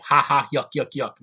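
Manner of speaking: a hammed-up fake chuckle; mock laugh. Mocking movies that force in comedy with a fake laugh.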